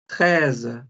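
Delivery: Treize said as trez, silent letters dropped; French treize. Shown as a demonstration. Teacher models French thirteen: Treize said trez. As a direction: Treize ending in a z sound. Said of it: "simple y llanamente no suena".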